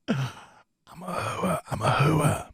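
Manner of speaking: slow, soft, drawn-out hammed-up lament; mock wail. Sophie moaning her confession, slow and soft mock wail. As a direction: moan it like a tragic heroine.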